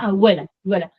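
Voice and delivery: "abuela" as "awela", lips not closing; soft B. Shown as a demonstration. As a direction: model "abuela" with a W glide for the B. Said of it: "putting the lips together without really putting them together".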